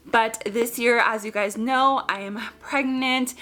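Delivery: breathless, short of air; out of breath. Real, not acted. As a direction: talk while winded. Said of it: "how out of breath I am".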